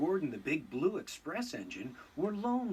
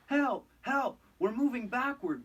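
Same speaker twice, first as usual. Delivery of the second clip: high, louder cry for help; panicked wail; 9 semitones higher, 4 dB louder than usual. A narrator's reading. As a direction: wail it as you roll backwards. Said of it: "wailed Henry".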